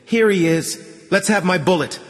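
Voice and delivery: put-on high child's voice demanding her pay; small girl claiming her bullet; pushy little girl. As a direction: hold out your hand and insist.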